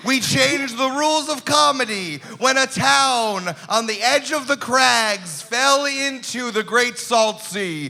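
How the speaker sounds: slow, grand monster host; lightly voiced sea monster; kraken voice.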